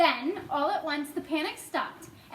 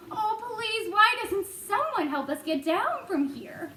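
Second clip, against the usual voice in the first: high pleading voice; Miss Spider calling; 6 semitones higher than usual. A narrator's reading. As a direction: beg for help from above. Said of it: "Miss Spider called out".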